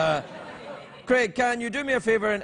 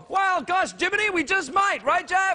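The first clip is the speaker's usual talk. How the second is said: higher hokey aw-shucks voice, mock folksy; 10 semitones higher than usual. Host answers the Texan fan in a mock folksy bumpkin voice. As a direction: play a wide-eyed country bumpkin. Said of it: "voicing hokey reply to Texan".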